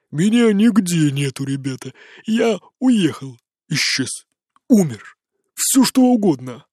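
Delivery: put-on drunk rambling. A narrator's reading.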